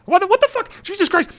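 exasperated outburst. Real, not acted.

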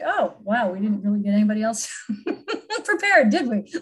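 laughing. Retold or imitated. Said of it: "we're like".

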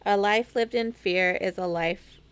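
slow careful reciting; slow deliberate retake; slow recitation. Shown as a demonstration. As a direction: lay out each word of the motto. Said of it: "Say it again".

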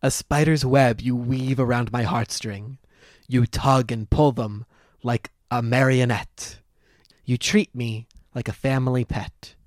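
slow, lightly voiced suitor reciting; mock-grand reading through spectacles; pompous poem recital. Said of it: "let me start this over".

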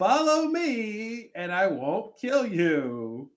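town crier. Pretend. Mock proclamation to the island.

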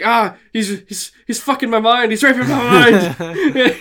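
high, laughing panicked whine; panicked Cartman. Retold or imitated. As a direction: squeal it like a freaked-out Cartman. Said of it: "he's like".

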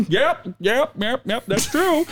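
high laughing agreement; high mock customer chuckling; imitated chuckling customers. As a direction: act tickled by a bland joke. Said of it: "people are like".

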